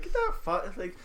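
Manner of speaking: imitating an Australian game character's line; playful go at an Australian accent. Quoting a bomb-defusing character, in an Australian accent. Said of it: "I love her Australian accent".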